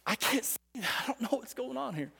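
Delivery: soft, small admission of being lost; hushed doubt. Acted. Preacher voices a listener's doubt today, hushed. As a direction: drop well down in volume, confiding.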